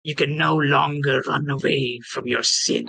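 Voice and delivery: a hint of rasp, spacing out the words ominously; raspy corpse voice. Corpse grabs the adventurer's hand to accuse, lightly raspy. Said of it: "in a very raspy voice".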